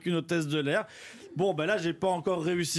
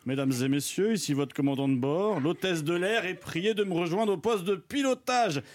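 lower, mock captain's cabin announcement; pilot announcement; 3 semitones lower than usual. Husband in pilot costume calls his wife like a captain. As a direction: play the captain announcing on board. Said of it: "je reste dans mon personnage".

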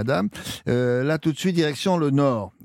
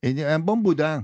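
imitation Marseille accent on request; 3 semitones higher than usual. Shown as a demonstration. Host repeating the local wish for his guest, Marseille accent. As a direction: put on a light Marseillais twang. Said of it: "Refaites ça, comment vous dites?".

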